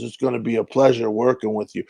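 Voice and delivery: lightly voiced impression, low pitched; Edo Ross. Veteran actor welcoming the newcomer, lightly imitated. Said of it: "He talks just like that".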